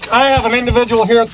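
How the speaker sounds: stiff dispatcher call-in; formal cop radio talk; police radio voice. Acted.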